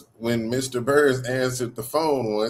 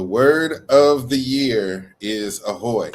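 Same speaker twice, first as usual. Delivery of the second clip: word-of-the-day announcement; 5 dB louder, much slower than usual. Retold or imitated. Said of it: "if you ever watch Pee-wee's Playhouse".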